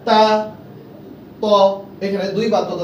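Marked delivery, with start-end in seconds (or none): 0.1-0.5 তা said loud with the long aa held; drawn-out vowel. Shown as a demonstration. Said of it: "আমার সঙ্গে বলেন". 1.4-1.5 ত said short and clipped, no stretch; short vowel. Shown as a demonstration. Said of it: "আমার সঙ্গে বলেন".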